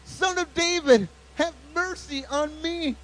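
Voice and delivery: high, insistent cry for mercy. A narrator's reading. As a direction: shout it high, drawing out the end. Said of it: "he only shouted louder".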